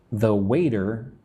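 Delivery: "waiter" said as "wayder"; soft T. Shown as a demonstration. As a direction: soften the T in "waiter" to a light d. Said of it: "I pronounce the T softly".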